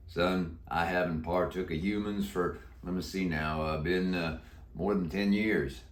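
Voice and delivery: put-on a croaky old Western cowboy; deep croaky voice. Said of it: "He answered in a deep, croaky voice".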